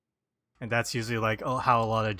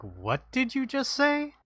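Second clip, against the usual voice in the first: confused; 6 semitones higher than usual. Retold or imitated. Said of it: "You're like".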